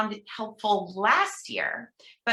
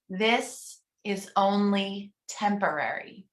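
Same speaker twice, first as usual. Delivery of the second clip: slow affirmation reading; slower than usual. Shown as a demonstration. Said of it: "I'm gonna read each one".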